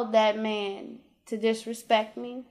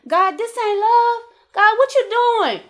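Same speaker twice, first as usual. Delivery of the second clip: exasperated complaint to God, rising in pitch; angry questioning; 3 semitones higher than usual. Retold or imitated. Mother of four retelling her complaint to God, frustrated. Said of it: "I'm getting angry".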